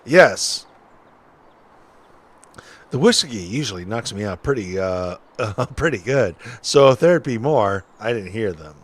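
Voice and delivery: lightly voiced folksy witness; a hint of an old-timer telling his story; old-timey witness.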